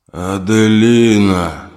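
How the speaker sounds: slow drawn-out calling; slow eerie call. Acted. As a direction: stretch the name slowly. Voice calls her name.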